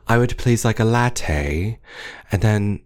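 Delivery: slow, wavering mock British; British accent going in and out; half British accent. Imitating customer ordering latte, patchy British accent. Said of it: "losing reception on her accent".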